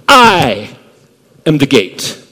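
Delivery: a pause after "I" before "am the gate"; underlined I. Shown as a demonstration. Preacher underscoring Jesus' claim, emphatic pause. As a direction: set "I" apart, then land "am the gate". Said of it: "attention-getting, underscoring, underlining way".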